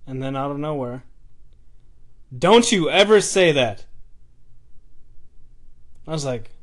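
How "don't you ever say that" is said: louder, slower, stern mock shout; retold angry shout. Old homeless man scolding a kid, angry mock shout. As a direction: bark it back like the old man did, a bit higher. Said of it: "basically screamed at me".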